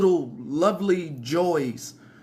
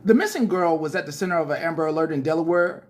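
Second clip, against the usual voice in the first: news read; faster than usual. Acted. Reads article as newscaster.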